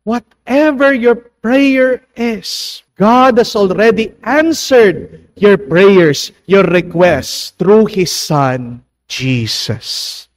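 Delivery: slow, high, lifted prayer voice; slow solemn preaching to the congregation; prayerful preaching. Acted. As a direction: draw each phrase out like a prayer. Prayer to close the reading.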